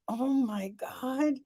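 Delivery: thrilled, high and bright; excited. Retold or imitated. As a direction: gush with delight. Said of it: "And moments of".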